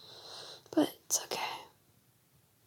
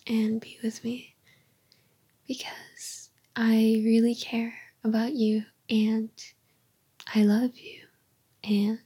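tender unvoiced whisper to a partner. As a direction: breathe the words close to the mic.

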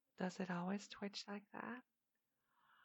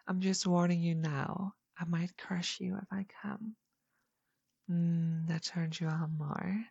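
loud, breathless and heated; passionate moaning; 3 semitones higher, 13 dB louder than usual. Acted. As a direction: build the passion, getting louder. Climactic moaning roleplay.

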